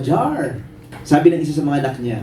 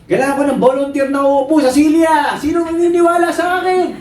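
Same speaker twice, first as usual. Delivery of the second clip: high, rousing shout to the crowd; tightrope walker showman; 12 semitones higher, 3 dB louder than usual. Acted. Tightrope walker seeking a chair volunteer, showman's high shout. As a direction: build the challenge, pitch climbing. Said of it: "At sabi ng tightrope walker".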